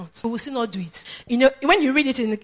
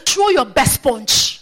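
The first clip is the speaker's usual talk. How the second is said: steady, slow dare; bold challenge; 3 semitones higher, 5 dB louder, much slower than usual. Acted. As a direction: stretch out the challenge without shouting. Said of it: "if you don't speak like that".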